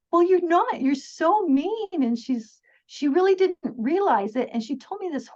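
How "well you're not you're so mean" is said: higher and louder, slow and blunt; telling the mean boss off to her face, bluntly; blunt accusation. Retold or imitated. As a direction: tell her straight she's mean.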